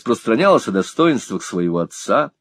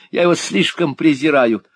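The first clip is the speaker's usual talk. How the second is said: hysterical; 6 semitones higher than usual. A narrator's reading. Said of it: "проявляя все симптомы истерики".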